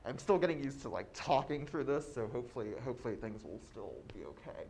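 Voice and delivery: muffled speech behind a face mask; talking through a mask. Real, not acted. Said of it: "excuse me if things sound muffled".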